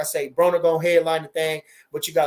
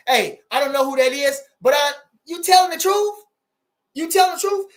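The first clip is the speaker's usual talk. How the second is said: surprised disbelief; 7 semitones higher, 5 dB louder than usual. Real, not acted. Reacting to a comment's claim.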